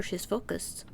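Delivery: hushed whisper, barely voiced. Real, not acted. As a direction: keep it down so she isn't disturbed. Hushing while aunt concentrates.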